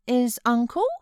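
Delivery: put-on a fretful child pleading to stay; sickly child. A narrator's reading. Boy refusing to leave his uncle, high fretful whine. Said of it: "he continued".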